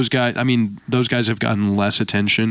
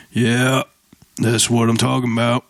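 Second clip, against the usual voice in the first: lightly voiced Arthur Morgan, Southern accent; imitating Arthur Morgan. Podcaster imitates game cowboy for cohost, mock Southern accent. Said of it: "Arthur Morgan, Red Dead Redemption".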